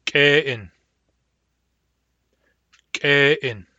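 glottalized k opening "Kein"; hard K. Shown as a demonstration. Teacher giving the example word for hard K, glottalized "Kein". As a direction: pop the k of "Kein" with a closed glottis. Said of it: "Hard K".

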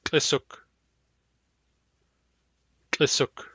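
glottalized tl opening "Tlisuk"; hard lambda. Shown as a demonstration. Teacher giving the hard lambda example, glottalized "Tlisuk". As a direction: pop the tl of "Tlisuk" with a closed glottis. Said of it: "Hard lambda".

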